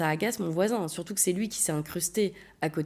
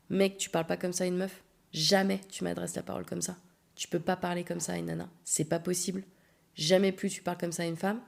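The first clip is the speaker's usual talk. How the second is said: quiet, firm scolding; soft but firm; 4 dB quieter than usual. Retold or imitated. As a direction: lay down the law calmly. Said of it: "quelque chose de très soft".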